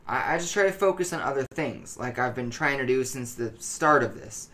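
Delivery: anxious, halting, stumbling over words; tense and jittery, like he can't sit still; nervous paranoid voice. Acted. Paranoid addict gives his account.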